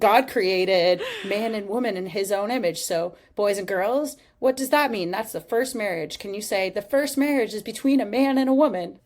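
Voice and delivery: a hammed-up Australian accent preaching to kids; mock Australian preacher voice, rising and loud. Host mocking Ken Ham in an Australian accent lecturing sixth graders. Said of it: "That was your Australian accent".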